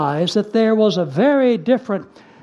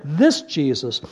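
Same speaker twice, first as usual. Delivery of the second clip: deliberate, pointed "this Jesus"; emphatic; 5 semitones lower than usual. Shown as a demonstration. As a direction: stress "this", with "Jesus" falling away. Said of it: "this emphatic".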